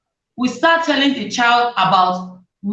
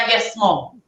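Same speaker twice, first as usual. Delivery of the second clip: yes mom, dropped a little lower in pitch; deeper voice; 4 semitones lower than usual. Retold or imitated. Mother imitating her teenage son's breaking voice, a touch lower. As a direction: imitate a boy whose voice has broken. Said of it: "The voice is going deep".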